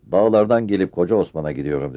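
joyful. Acted. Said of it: "Sevinçli bir ses".

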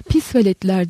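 sesini zorla kalınlaştırıp bağıran adam; kalınlaştırılmış sesle bağırış. Acted. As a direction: tok görünmeye çalışan kızgın bağırış. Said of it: "diye bağırdı elinden geldiğince sesini kalınlaştırarak". (sesini kalınlaştırarak bağırıyor)

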